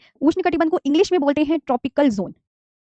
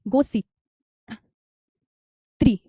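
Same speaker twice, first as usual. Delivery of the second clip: slow spelled mnemonic; slower than usual. Shown as a demonstration. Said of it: "गोसी त्रिनामी".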